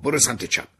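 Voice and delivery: urgent shouted direction; called-out command. Acted. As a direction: call it out like a distant guide.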